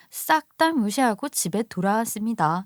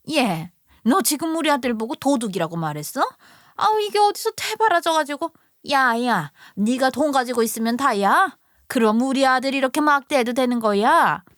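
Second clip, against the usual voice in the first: indignant mother-in-law; 2 semitones higher than usual. Acted. Mother-in-law defending her son, scolding her daughter-in-law in a shrill older woman's voice. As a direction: berate her son's wife, defending him.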